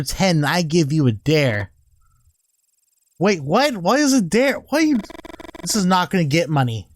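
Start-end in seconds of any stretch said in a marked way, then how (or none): 3.2-5.0 rising higher and higher in disbelief; each question climbs in confused surprise; baffled surprise. Real, not acted. Player baffled by the sudden dare, rising disbelief.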